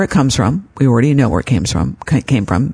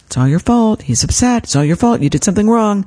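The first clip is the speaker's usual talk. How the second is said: nagging inner critic; 6 semitones higher than usual. Retold or imitated. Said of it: "the voice in my head saying".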